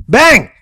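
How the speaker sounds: high, loud exclamation; sudden impact. A narrator's reading. Narrator sounds Dingo being hit in the gut, sudden impact.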